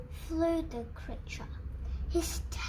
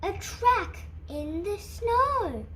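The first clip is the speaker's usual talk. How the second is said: high, loud owl hoots and cries; hooting owl; 4 semitones higher, 5 dB louder than usual. Acted. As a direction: call out like a delighted owl. Owl calling out at the snow tracks.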